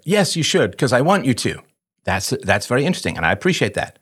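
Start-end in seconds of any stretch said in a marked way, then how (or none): 0.0-1.6 put-on child voice. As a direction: whine it like a three-year-old. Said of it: "the U P B question goes something like this".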